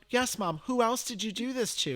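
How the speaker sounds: high, loud mock exasperation; exasperated. Son demanding whom else his mother contacted, exasperated retelling.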